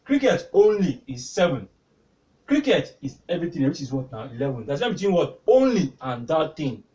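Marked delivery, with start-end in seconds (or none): 0.0-1.7 "only" stretched and stressed. Shown as a demonstration. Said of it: "I'm laying emphasis on that". 5.5-6.8 "only" said slowly with weight; slow, emphatic "only", teacher making a point; stress on only. Shown as a demonstration. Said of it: "I'm laying emphasis on that".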